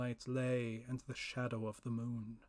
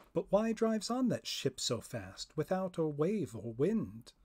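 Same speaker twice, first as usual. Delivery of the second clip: higher, puzzled spirit voice; raised questioning spirit; first spirit asking; 4 semitones higher than usual. Acted. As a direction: wonder aloud at the racing ship.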